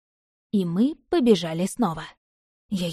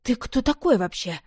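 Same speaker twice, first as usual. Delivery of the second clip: indignant; 4 semitones higher than usual. Acted. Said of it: "возмутилась Марина".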